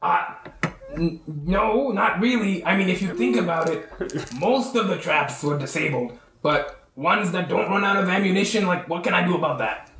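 defensive Trevor. Acted. Trevor excusing himself to the angry party, lightly acted defensiveness. Game master answers as accused Trevor.

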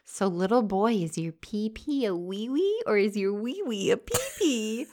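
high playful teasing; teasing baby talk. Retold or imitated. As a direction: tease him like a little boy. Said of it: "had to tease him a bit".

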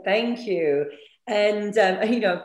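hoarse croaky voice from allergies; a bit of a croak in the throat. Real, not acted. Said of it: "croaky voice this morning".

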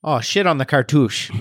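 put-on botched Chicago accent slipping into Fargo; Chicago accent gone Fargo. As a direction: aim for Chicago, land in Fargo. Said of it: "it went Fargo".

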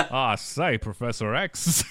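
mock Southern American accent, slow on the name; Daniel Craig Knives Out accent. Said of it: "with Daniel Craig's accent from Knives Out".

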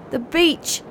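mildly excited, lifted in pitch; a dawning flicker of excitement; excited thought. A narrator's reading. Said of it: "thought Shaggles excitedly".

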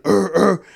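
growled noises to fend off dogs; retold warning growls; imitated yelling. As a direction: mimic a bear-like holler. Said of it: "I'm, like, yelling".

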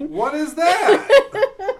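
squealed through laughter; laughing. Real, not acted. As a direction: burst out laughing mid-question.

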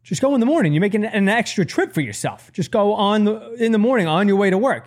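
high, disbelieving son voice; incredulous young self. Retold or imitated. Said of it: "And I'm like".

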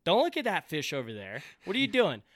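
imitating an exasperated guide; mock telling-off; scolding guide. Retold guide scolding the angler.

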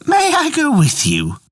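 high bleating goat voice; bleating like a ram. Acted. Goat asks to come.

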